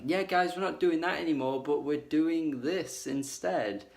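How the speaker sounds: sarcastic spokesman for the band, cheerfully announcing the change; mock band voice. Reviewer mocking the band's new direction, sarcastic and bright. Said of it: "'cause it's like".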